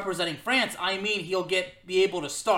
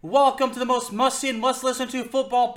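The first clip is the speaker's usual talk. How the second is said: big top announcer welcome; ringmaster; 3 semitones higher, 4 dB louder than usual. Pretend. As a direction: boom it out like a circus ringmaster. Podcast intro announcer style.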